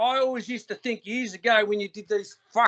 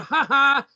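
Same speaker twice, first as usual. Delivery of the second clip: mock "ha ha", pitched up; mocking laugh; 4 semitones higher, 4 dB louder than usual. Man mimicking Batman standing back to mock him, fake laugh. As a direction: imitate someone gloating with a fake laugh. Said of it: "you stand back and go".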